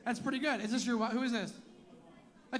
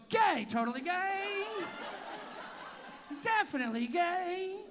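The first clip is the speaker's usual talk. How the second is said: mock proud shout; 7 semitones higher than usual. Comic imagining gay guys cheering their answer. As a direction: proclaim it gleefully. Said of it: "They never go".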